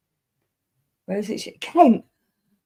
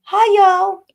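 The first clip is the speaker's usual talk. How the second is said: high, loud mock greeting; higher, louder send-up of a friend; mimicking Jackie; 10 semitones higher, 4 dB louder, much slower than usual. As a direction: mimic a chirpy streamer greeting.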